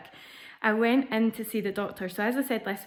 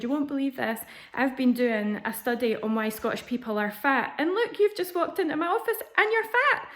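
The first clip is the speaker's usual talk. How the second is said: high, over-excited doctor climbing to a punchy high finish; gushing doctor; 5 semitones higher than usual. Retold or imitated. Doctor thrilled to meet someone from Scotland, imitated gushing. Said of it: "can still hear her voice now".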